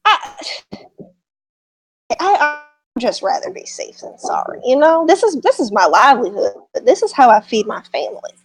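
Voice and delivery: hesitant gossiping farmer, pitch rising and dipping; Southern farmer. Acted. Farmer sharing talk from the inn, hesitant and dismissive. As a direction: pass on a rumour, halting and sceptical.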